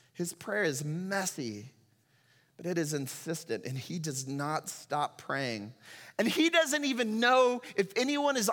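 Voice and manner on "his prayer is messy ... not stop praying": quiet earnest. Acted.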